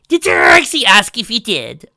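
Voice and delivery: loud, high, slow snap; snapped. A narrator's reading. Trixie snapping at Spike for his doubts, loud. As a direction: bite back at him. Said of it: "snapped Trixie".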